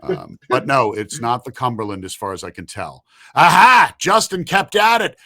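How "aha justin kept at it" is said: excited. Real, not acted. Host announces the winner.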